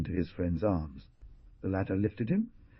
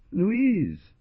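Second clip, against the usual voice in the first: high, loud anguished cry; bursting into sobs; 12 semitones higher, 4 dB louder than usual. Acted. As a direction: cry the name as sobs break out. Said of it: "he burst into sobs".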